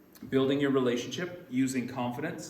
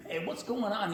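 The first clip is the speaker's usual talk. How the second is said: high, casual bumbling detective; bumbling Columbo; 7 semitones higher than usual. Retold or imitated. Columbo walking into places, lightly voiced bumbling fool. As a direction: lightly imitate a New York bumbler. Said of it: "this bumbling fool".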